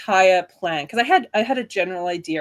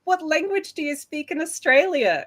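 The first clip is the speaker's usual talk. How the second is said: mocking the gentlemen; 10 semitones higher than usual. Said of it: "they're like".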